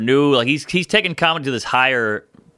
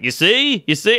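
much higher triumphant mock Norm; smug Norm; 9 semitones higher than usual. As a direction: gloat like you were proven right. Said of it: "And he's like".

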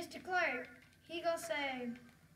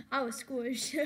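laughing; 4 semitones lower, 4 dB louder, slower than usual. Real, not acted. Laughing while telling.

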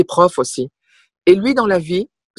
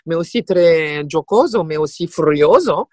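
round, lightly rolled Italian accent; playful touch of an Italian accent. Shown as a demonstration. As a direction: lean into the Italian words. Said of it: "l'accent italien qui est très rond".

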